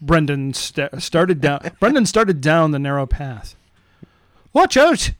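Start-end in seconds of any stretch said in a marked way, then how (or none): 4.5-5.1 high shouted warning; called out. Acted. Boy warning others as he nearly falls, high call. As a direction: yelp it over your shoulder. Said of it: "he called over his shoulder".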